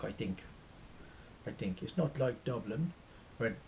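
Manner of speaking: put-on Irish accent; rough Irish attempt, unsure. Shown as a demonstration. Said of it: "I'm not very good at Irish".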